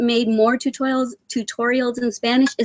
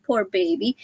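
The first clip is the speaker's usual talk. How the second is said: ordinary talk, nothing marked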